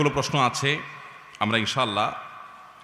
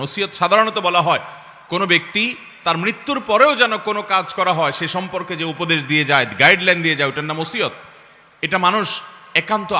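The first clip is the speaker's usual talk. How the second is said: raised-pitch sermon explanation; emphatic preaching; 6 semitones higher, 4 dB louder than usual. Acted. Preacher explaining a bequest to the gathering, emphatic preaching. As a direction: drive the definition home to the crowd.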